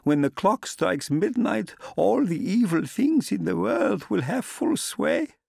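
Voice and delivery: put-on high, loud, urgent old woman's voice, slowing on the middle lines; distressed old landlady. A narrator's reading. Old landlady warning the traveller against going, distressed and pleading. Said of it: "She was in such evident distress".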